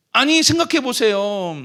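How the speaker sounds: ordinary talk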